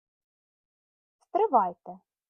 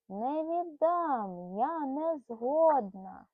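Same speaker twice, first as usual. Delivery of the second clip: stubborn squirrel; 2 semitones higher, much slower than usual. Acted. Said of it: "А Мері на те".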